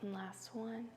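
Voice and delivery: soft, unhurried yoga-teacher voice with long pauses; guided yoga relaxation. Real, not acted. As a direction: ease them through each breath, softly. Leads calming yoga practice.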